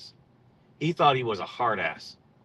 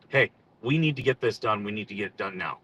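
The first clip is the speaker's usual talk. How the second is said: very serious; 4 semitones lower than usual. Retold or imitated. Officer telling his Marines to get it done, very serious. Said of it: "Very seriously, I'm gonna be like".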